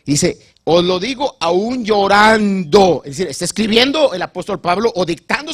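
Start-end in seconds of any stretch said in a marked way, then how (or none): 0.6-3.0 slow, loud, tearful quote of Paul; imitating tearful voice. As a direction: act out Paul weeping as he speaks. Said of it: "se le quiebra la voz".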